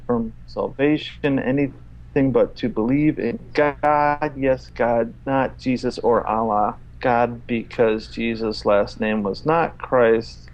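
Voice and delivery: one long run-on read that ignores every stop; read without punctuation. Shown as a demonstration. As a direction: plough through with no sentence breaks. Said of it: "I'm gonna read it without his punctuation".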